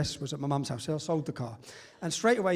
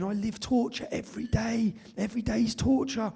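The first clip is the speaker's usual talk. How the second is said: higher, retelling her sobbing words; imitated crying; 6 semitones higher than usual. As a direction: mimic a distraught woman in tears, pitched up. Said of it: "She breaks down crying, and she's screaming".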